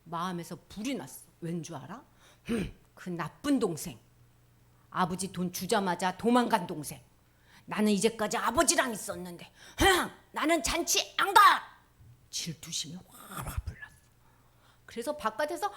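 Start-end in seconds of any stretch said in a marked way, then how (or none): 2.5-11.4 sulky jealousy. Acted. Jealous elder son sulks.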